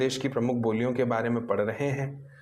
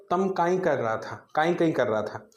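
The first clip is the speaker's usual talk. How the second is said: Malwi dialect; 3 semitones higher than usual. Shown as a demonstration. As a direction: repeat it in Malwi, unhurried. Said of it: "तो वो कैसे बोला?".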